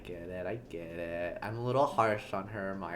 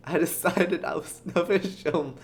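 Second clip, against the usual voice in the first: sleepy New Yorker. Acted. Actor explains not wrecking kids' dreams, sleepy New Yorker. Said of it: "sleepy New Yorker".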